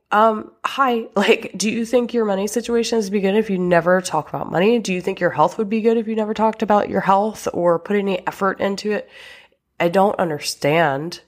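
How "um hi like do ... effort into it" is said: higher, quick rhetorical questioning; incredulous challenge. Acted. Coach challenging couples who never talk about sex, incredulous. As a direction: rattle off pointed questions, pitched up.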